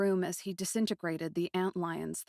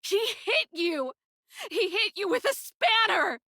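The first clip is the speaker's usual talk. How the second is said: outraged shout; 13 semitones higher, 6 dB louder than usual. Acted. Girl outraged that the wizard hit her little friend, shouting. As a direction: cry out in disbelief at what he did. Aiko outraged at Rain's injury.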